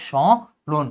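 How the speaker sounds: স্মরণ as a slow, nasalised "shõron", the m silent; nasalised pronunciation. Shown as a demonstration. Teacher showing students the nasal sound, nasalised pronunciation. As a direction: draw out স্মরণ with a nasal first vowel. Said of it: "এই নাসিক্যটা দেখানোর জন্য আমার এখানে চন্দ্রবিন্দু".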